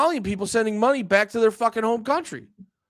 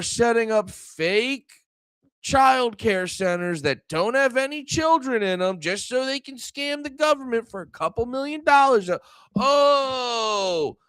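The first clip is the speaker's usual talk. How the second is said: sarcastic mockery; 4 semitones higher than usual. Mocks critics with drawn-out sarcasm.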